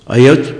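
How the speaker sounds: ऐ, औच as one quick word; vowels run together. Shown as a demonstration. Teacher repeating the unclear way, ऐ, औच blurred into one. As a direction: merge ऐ and औच with no gap. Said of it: "पता नहीं चलेगा".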